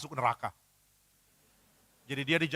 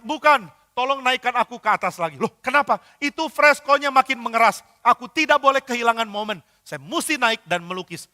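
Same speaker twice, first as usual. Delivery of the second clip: high and loud, refusing to rest; stubborn insistence; 6 semitones higher, 6 dB louder than usual. Acted. Injured painter insisting to the helper that he climb back up, loud and stubborn. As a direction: push through the pain, he must finish.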